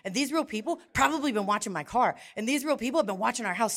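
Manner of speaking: fast, rising panicked reasoning; frantic rationalizing. Retold or imitated. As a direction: rush the paranoid logic out. Frantic justification to husband.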